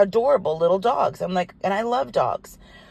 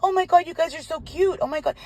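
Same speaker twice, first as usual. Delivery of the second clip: very high-pitched puppy-greeting coo; gushing; 9 semitones higher than usual. Retold or imitated. Woman bent down to five little dogs, gushing. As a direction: gush over them in a high voice.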